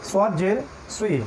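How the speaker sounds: "সদ জের সুই" slowly, lips rounded, heavy s. Shown as a demonstration. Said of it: "একটু গোল হবে মুখটা". (ঠোঁট গোল করে "সুই")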